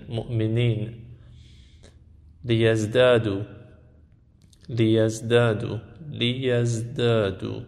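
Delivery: careful Arabic drill reading, one word at a time; Arabic pronunciation drill, measured and deliberate; Arabic accent. Shown as a demonstration. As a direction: model each word in an Arabic accent with long vowels held. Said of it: "این تمرینه که گفته اینها رو با لهجهٔ عربی بخونید".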